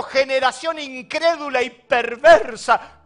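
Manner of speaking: angry rebuke. Acted. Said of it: "Jesús se enojó y dijo".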